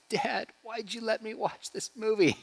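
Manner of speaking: put-on high, whiny kid voice, lightly done; imitating crying boy. Friend's son after a violent film, mild mock whine. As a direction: play the upset eight-year-old. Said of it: "He's like".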